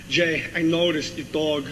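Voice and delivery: slow, halting Walken delivery; lightly voiced Walken, unhurried; Walken impression. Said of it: "Walken goes".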